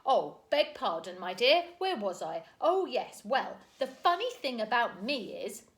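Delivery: loud, high, cheery apology; sorry but cheerful booming; apologetic jolly uncle. A narrator's reading. Mister Wig apologising to Mary Poppins, jolly.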